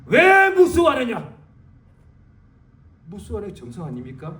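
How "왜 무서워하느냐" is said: high, loud and slow, 왜 stressed; slow loud rebuke. Retold or imitated. Jesus questioning his fearful followers, slow and loud. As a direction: drag out the scolding question. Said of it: "예수는 말씀하시기를".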